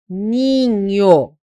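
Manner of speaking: NINHO stretched, NH as one "ñ" sound; dígrafo NH demonstrado. Shown as a demonstration. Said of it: "A gente fala assim, ninho". (NINHO alongado, com o NH num som só)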